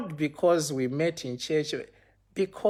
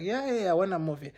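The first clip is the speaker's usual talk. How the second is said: quick, higher-pitched yes; retold eager agreement; 4 semitones higher, much faster than usual. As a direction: rattle off a keen agreement.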